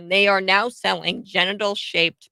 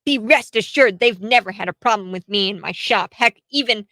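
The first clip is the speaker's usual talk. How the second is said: mock indignant; 2 semitones higher, 3 dB louder than usual. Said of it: "So she's all upset".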